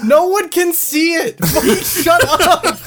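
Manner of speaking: annoyed shout. Real, not acted. Annoyed at others playing.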